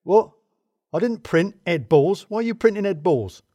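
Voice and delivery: high, loud, indignant questioning; yelling. A narrator's reading. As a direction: yell your bafflement from the next room. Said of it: "he yelled".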